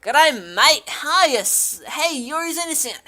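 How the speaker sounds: put-on loud, overdone Aussie accent; big clumsy Australian greeting; bad Australian accent. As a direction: belt it out as a cheesy Australian. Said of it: "Oh, that was bad".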